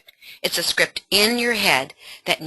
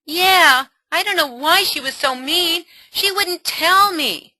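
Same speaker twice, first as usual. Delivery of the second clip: put-on higher hurt teen voice; sad daughter; 10 semitones higher, 3 dB louder than usual. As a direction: sound let down by a friend.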